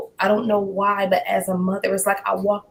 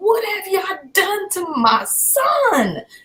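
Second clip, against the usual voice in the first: very high, swooping screaming cry, son drawn out; 11 semitones higher, 3 dB louder than usual. A mother recounting being told to go sit in her car, acting out her own screaming. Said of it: "And I'm just screaming".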